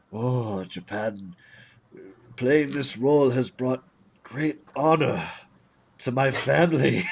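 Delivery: solemn actor in a fake Japanese accent; slow, honored, fake Japanese accent. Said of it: "fake Japanese accent".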